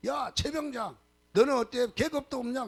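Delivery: mock angry officer, pitched high. Offended captain scolding a sergeant for lacking rank, imitated anger. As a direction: imitate a superior's high, indignant outburst. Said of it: "막 성질을 내갖고 왔어요".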